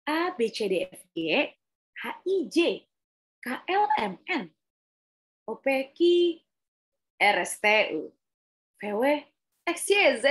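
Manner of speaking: "A, B, C" up high, "D, F, G" dropping, each group a new tune; varied intonation. Shown as a demonstration. Coach showing alphabet exercise, "H, I, J" and other groups in changing tones. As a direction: swing "X, Y, Z" up high and loud, vary every letter group. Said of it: "tapi dengan nada-nada yang berbeda".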